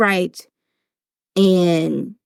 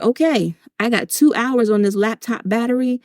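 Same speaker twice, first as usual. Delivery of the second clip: a lighter, higher, upbeat voice; breezy mom to the kids; 4 semitones higher than usual. Retold or imitated. Mom tells stepsons to go play, breezy and upbeat. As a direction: hands off the kids, then gets to work. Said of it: "And I was like".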